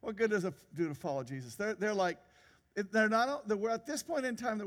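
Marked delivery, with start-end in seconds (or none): 0.0-1.5 quick, dismissive mock question. Preacher imitating how the world scoffs at faith, dismissive. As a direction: toss it off as the scornful world would. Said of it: "In a dismissive manner".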